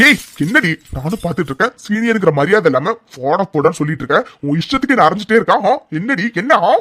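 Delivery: angry shout. Acted. Aravind to Aara, enraged yelling. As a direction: explode back at her. He snaps back after slap.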